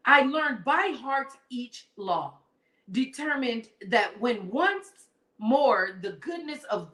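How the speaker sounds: put-on slow, measured reading of an old-fashioned passage; reading from the book. Host reading the book to live viewers, slow and measured. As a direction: let each archaic line land slowly. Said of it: "I'm gonna read this".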